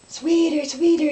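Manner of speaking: high, loud panicked holler. Retold or imitated. Husband yelling for his wife from a galloping horse, high panicked holler. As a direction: yell for your wife from a runaway horse. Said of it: "he started hollering".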